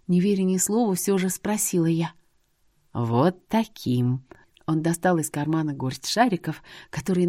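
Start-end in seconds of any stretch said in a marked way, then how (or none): 2.9-4.2 put-on very slow, low old man voice; amused old seer. A narrator's reading. Seer teases the stubborn girl, slow low old man.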